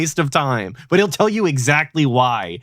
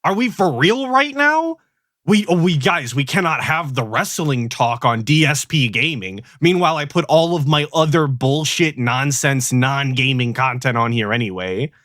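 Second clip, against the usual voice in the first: exasperated. Real, not acted. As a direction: throw up your hands in disbelief. Exasperated rant at co-host.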